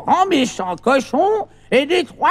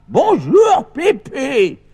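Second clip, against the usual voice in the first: shouted reply; much slower than usual. Shown as a demonstration. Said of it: "vous allez crier très fort".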